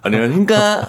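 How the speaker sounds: formal start sliding up into cutesy; high, laughing hybrid greeting; deep turning cute. Acted. Employee testing a compromise on the boss, formal turning cute. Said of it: "처음엔 깔면서 시작했다가 뒤에는 귀엽게".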